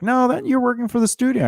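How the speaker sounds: high-pitched mimicked protest; mock objection. People objecting to the speaker's claim, mock protest. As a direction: put on a naysayer's high voice. Imitating objectors in a retold argument.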